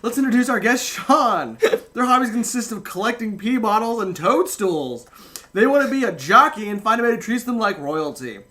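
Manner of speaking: lightly voiced cheesy TV host; upbeat, brisk host patter; game show host voice. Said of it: "So I have to use the announcer voice".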